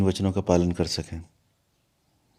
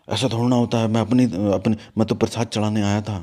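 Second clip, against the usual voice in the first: louder, mildly indignant imitation of an angry man; retold angry protest; 4 dB louder than usual. Angry devotee bursting into the guru's hut to protest, retold with mild anger. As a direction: act out his heated objection, raising the volume a little. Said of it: "क्रोध में अंदर आ गए".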